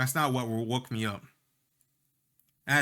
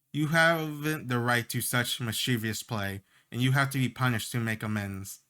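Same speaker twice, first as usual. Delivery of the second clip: sing-songy. Acted. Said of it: "speaks in a sing-songy voice".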